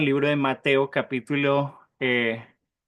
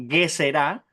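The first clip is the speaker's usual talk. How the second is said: Gezerá stressed on the last syllable, ending raised; stress on final A; slower than usual. Shown as a demonstration. Teacher repeating the term for memorizing, Gezerá stressed on the final á. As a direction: land on the closing á of Gezerá. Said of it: "tilde en la A".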